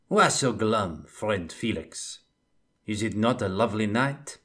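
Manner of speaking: dry, mocking Bretonnian cheer; sardonic. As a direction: tease him about his gloom. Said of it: "asked Jules Gascoigne sardonically".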